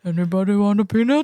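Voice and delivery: imitating a goofy low-register movie voice; lightly voiced lovable lug; put-on deep voice. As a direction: try for that dopey deep voice. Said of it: "try to do that voice".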